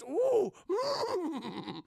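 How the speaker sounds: high-pitched little creature hum; creature cooing. Retold or imitated. Retold creature's curious noises.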